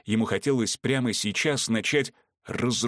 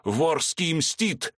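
slow, higher raving cry; raving threat; 7 semitones higher, slower than usual. Acted. Vorski fleeing the room, raving slow higher cry. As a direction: chant the vengeance wildly. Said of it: "повторяя".

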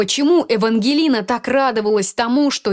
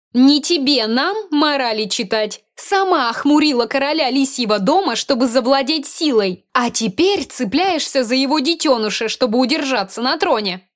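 nervous sneer; 5 semitones higher than usual. Acted. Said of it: "Айви нервно усмехнулась".

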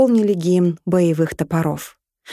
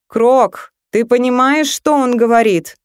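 рык дракона; 5 semitones higher, 4 dB louder than usual. Acted. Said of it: "рыкнул дракон".

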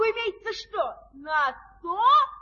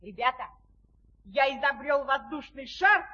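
excited. Acted. Excited announcement of flight.

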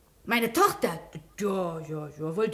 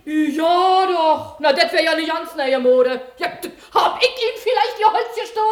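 indignant; 3 semitones higher, 4 dB louder than usual. Acted. Washerwoman indignant at accusation.

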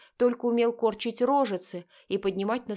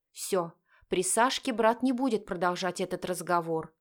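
usual speaking voice

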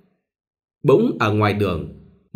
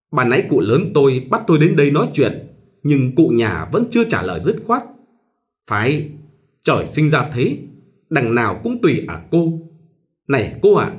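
higher, pushy matchmaker voice; meddling go-between; 3 semitones higher than usual. Acted. Go-between pressing a reluctant bride, lightly pushy. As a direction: coax her like a busybody go-between. Tài continues persuading.

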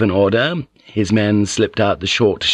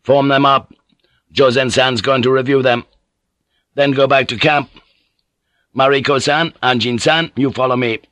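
raised, higher commanding voice; called orders; 4 semitones higher than usual. Acted. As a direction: give the troops their orders. Yabu calls orders to his men.

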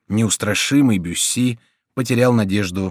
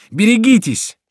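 piercingly high repeated alarm; warning cry; 11 semitones higher, 5 dB louder than usual. A narrator's reading. Remy warns Bussy of men rushing in, very high cry. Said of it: "вскричал Реми".

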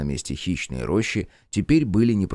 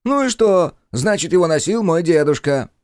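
put-on whiny kid; 10 semitones higher, 6 dB louder than usual. Whiny centaur insists.

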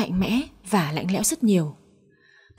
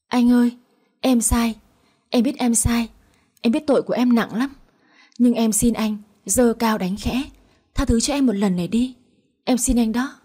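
pleading wife; 2 semitones higher than usual. Acted. Wife begs husband for forgiveness.

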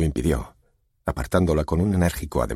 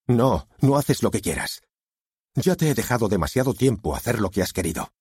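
stern father; 7 semitones higher than usual. A narrator's reading. Father lays down the law.

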